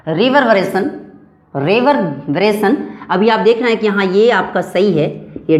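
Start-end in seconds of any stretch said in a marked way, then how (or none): 0.1-0.9 रिवरबरेशन said clearly with a rising end; sound demonstration. Shown as a demonstration. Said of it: "sound को पहले गौर से सुनेंगे आप". 1.6-2.8 slow रिवरबरेशन with a small break inside; careful, drawn-out teacher's रिवरबरेशन; sound demonstration. Shown as a demonstration. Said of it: "sound को पहले गौर से सुनेंगे आप".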